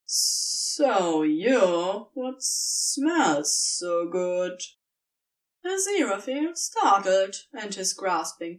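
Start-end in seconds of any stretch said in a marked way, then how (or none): 0.1-4.6 very slow, drawn-out serpent hiss; hissing snake whisper. Acted. Snake to a tired tree-being, slow seductive hiss. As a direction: stretch every word like a tempting snake. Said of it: "a hissing voice whispered".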